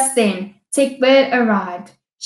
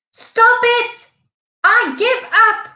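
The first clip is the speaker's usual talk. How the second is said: high, loud frantic surrender; desperate yell; 12 semitones higher, 3 dB louder than usual. A narrator's reading. Rhino itching all over, yelling his high frantic surrender. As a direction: cry out, begging it to stop. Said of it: "yelled Rhino".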